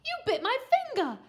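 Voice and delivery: high, loud, fast squeal; indignant high yell; screamed accusation. A narrator's reading. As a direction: shriek in shocked protest. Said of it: "screamed Mum".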